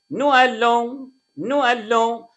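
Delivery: "نو ألون" with no z between the words; no liaison. Shown as a demonstration. Teacher showing the ordinary pronunciation first, "نو ألون" without liaison. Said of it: "ندي النطق العادي هنا".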